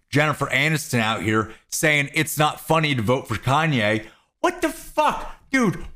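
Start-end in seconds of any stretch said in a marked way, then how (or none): 4.4-5.8 high, disbelieving outburst; a sudden incredulous squeak; disbelief. Real, not acted. Reacting to Jennifer Aniston's comment, in high disbelief.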